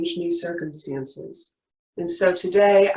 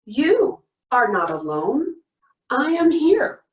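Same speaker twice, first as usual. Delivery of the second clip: group recitation; 3 semitones higher, 4 dB louder than usual. Shown as a demonstration. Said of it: "Say it with me".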